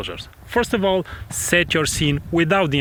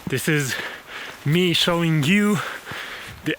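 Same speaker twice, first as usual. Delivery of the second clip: heavy breathing. Real, not acted. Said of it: "you have to excuse my breath".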